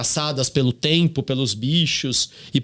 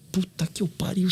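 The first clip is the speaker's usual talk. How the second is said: whispered curse; 4 semitones higher, 6 dB quieter than usual. Retold or imitated. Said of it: "E Pedro já tá assim".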